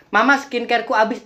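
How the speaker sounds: pleading daughter. Acted. Daughter telling Mama the skincare is gone, lightly acted pleading.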